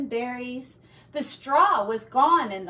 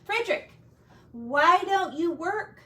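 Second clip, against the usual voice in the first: higher, mice asking a question; 6 semitones higher, 4 dB louder than usual. Acted. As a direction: call out to the idle mouse. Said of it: "they asked".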